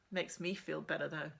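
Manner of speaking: steady first-person reading of a novel; measured storybook narration; story narration. A narrator's reading. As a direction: read it like a teen heroine telling her story. Reads novel chapter aloud.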